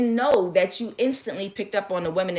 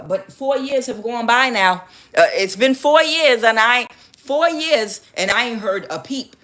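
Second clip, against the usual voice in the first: higher, exasperated client; play-acted indignant protest; mock complaint; 5 semitones higher, 5 dB louder than usual. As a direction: act out someone fed up with waiting.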